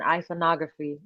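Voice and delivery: lightly put-on British accent. Shown as a demonstration. Host retries the session title for the guest, British accent. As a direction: say it with a playful touch of British. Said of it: "say it in my British accent".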